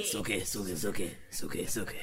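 vampire Bill impression. Shown as a demonstration. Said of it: "I can do that in a sort of".

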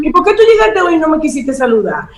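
mock accusing questions, pitch up; accusing complaint. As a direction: whine the complaints as if wronged.

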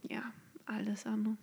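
breathy whispered afterthought; whispered aside. Real, not acted. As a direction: drop into a whisper. (geflüsterter Nachsatz)

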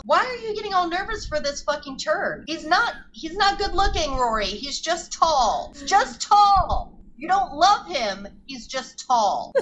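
mock scolding. Podcaster lecturing Rory about a tall boy, mock scolding. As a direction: hammer it home, stretching each verdict.

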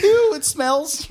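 put-on slow, high Brooklyn girl disgust; Brooklyn accent. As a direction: drag it out in a squeaky Brooklyn voice. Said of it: "Give her that stupid Brooklyn accent".

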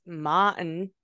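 put-on Martin in a Boston accent, R dropped; slow Boston-accent Martin. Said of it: "If you go to Boston".

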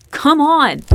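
strained high yell; desperate yell. A narrator's reading. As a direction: shout it with all your strength against the door. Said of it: "Sebastian yelled".

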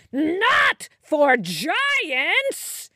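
slow, high, loud giant's bellow; angry shout. A narrator's reading. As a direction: roar it with offended fury. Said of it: "he shouted angrily".

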